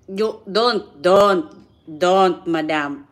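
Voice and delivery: half-joking protest at the chat; loud scold. Real, not acted. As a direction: cut them off sharply.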